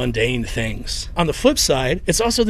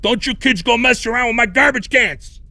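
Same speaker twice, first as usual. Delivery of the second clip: put-on higher, louder gruff neighbor yelling at kids; mock Chicago jerk yell; 8 semitones higher, 3 dB louder than usual. Imitating a grumpy Chicago adult yelling at neighborhood kids. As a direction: bark it like the cranky guy next door. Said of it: "It'd be like".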